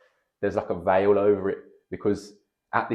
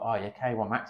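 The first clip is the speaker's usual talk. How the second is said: casually tossed off, like it's nothing; blasé; 3 semitones higher than usual. Retold or imitated. Coach mentioning the big league offhand, blasé. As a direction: drop it offhand, no big deal. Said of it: "He said it really, like, blasé".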